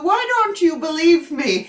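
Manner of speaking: voicing the puppy, a pleading question; dog's voice. Owner voicing her puppy pleading innocence, mock pleading. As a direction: play the puppy protesting his innocence. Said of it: "he's going".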